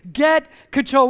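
firm loud get control; call-and-response line. Shown as a demonstration. Pastor leading church in a firm call. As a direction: lead the congregation in the phrase. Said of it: "so we have to say".

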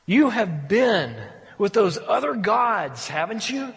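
very slow, grieved accusation; hurt heart, slow reproach; grieving God. Retold or imitated. God confronting his unfaithful people, grieved. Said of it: "God's heart saying".

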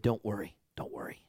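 low, near-whispered calming; imitated calm, very soft voice; hushed reassurance. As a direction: soothe softly, trailing down to almost nothing. Missionary reassures the panicking narrator.

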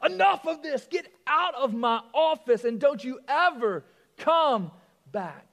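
loud angry shout; mock yell; yelling agent. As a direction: throw him out of the office. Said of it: "he yells".

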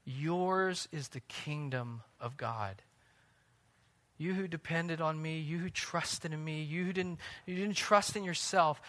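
a hushed, loving promise; tender voice of God. Acted. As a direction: speak it softly like God welcoming the needy. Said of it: "And he says to you".

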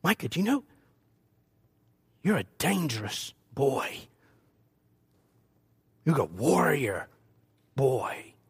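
low blessing. Retold or imitated. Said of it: "I would look and say".

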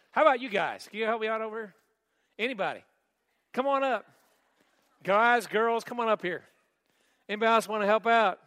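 calling out loudly to the crowd; yelling across the room. Real, not acted. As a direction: raise your voice to call people up. Calling volunteers up front.

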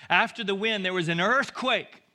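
loud, high proclamation; forceful scripture reading. A narrator's reading. Preacher reads of the earthquake to congregation, thundering. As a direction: let the earthquake boom.

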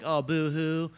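mock boo-hoo, drawn out a little; mock whining. Preacher mocks the idea of crying prisoners, mock whining. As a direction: whine it in jest. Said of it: "They're just whining".

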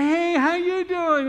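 high, loud, drawn-out hello; exuberant greeting. Retold or imitated. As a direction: holler a greeting at passing strangers. Stranger greets people coming out.

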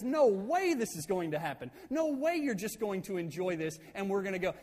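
retold flat-out refusal, worked up; freaking out. Moses refusing the tribes' proposal, mildly freaking out. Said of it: "He absolutely freaks out".

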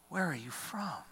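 a hint of the proud governor pressing; lightly voiced Pilate. Pilate questions Jesus, pitched up.

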